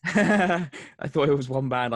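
laughing through the words, slow. Real, not acted. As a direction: giggle out the confusion. Laughing at own mix-up.

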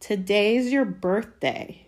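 drawn-out taunt; sneering. A narrator's reading. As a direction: rub it in with a sneer. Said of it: "sneered Dudley".

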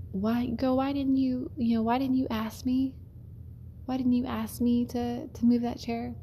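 a lightly voiced, pleading coach; half-hearted impression of a hurt coach asking why; coach's voice. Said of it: "he's got this voice too that I can't mimic".

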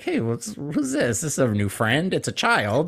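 a sweet house dog greeting a stranger; friendly dog voice. Retold or imitated. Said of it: "he'd probably also just be like".

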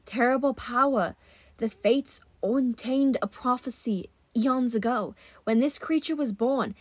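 lightly voiced huntress, grave and measured; solemn huntress. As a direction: recount the prophecy with hushed formality. Narrator plays Zoe telling the prophecy.

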